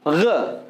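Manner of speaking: ग rasped from the back of the throat, like a French r; teacher demonstrating Urdu ghain; throaty ghain. Shown as a demonstration. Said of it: "हलक से निकालना है".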